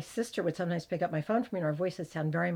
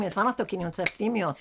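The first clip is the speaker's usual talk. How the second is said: correcting; 2 semitones higher, 4 dB louder, faster than usual. Retold or imitated. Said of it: "I would keep saying".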